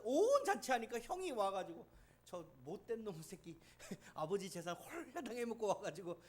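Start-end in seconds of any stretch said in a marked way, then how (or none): 2.2-6.2 sulky complaint. Retold or imitated. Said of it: "막 투정할 정도로".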